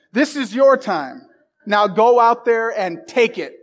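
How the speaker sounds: slow down and push each word. Acted. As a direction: close the speech like a coach sending them out. Ends the Miracle speech.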